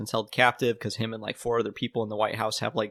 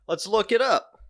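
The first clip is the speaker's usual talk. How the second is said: put-on voice; 11 semitones higher, 4 dB louder, slower than usual.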